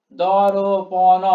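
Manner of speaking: "দর্পণ" very slow and loud in four open syllables. Shown as a demonstration. Teacher counting four beats, "দর্পণ" slowly syllable by syllable. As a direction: chant out "দর্পণ" as do-ro-po-no. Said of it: "উচ্চারণটা এরকম আসবে".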